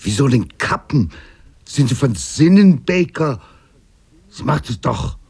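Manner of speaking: a high, loud furious retort; angry. Acted. The captain angrily refusing Baker's plea to cut, loud and high. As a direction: snap back at him, outraged. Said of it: "Wütend schüttelte Ellistown den Kopf".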